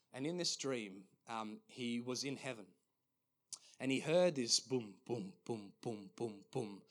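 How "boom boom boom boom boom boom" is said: low, evenly spaced booms; imitated marching boom. Pastor imitates marching heard in a dream, steady low booms. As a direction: boom out heavy marching steps. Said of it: "he heard this just marching".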